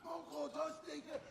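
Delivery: put-on high-pitched little girl voice, stretched words; child's refusal. Little girl answers her coach, high childlike refusal. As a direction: dig in like a stubborn kid.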